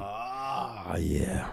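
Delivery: whispered. Real, not acted. Aside after clean show remark.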